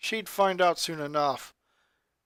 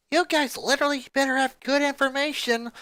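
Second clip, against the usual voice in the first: bossy demand; 7 semitones higher, 3 dB louder than usual. Acted. Oldest sister demanding news.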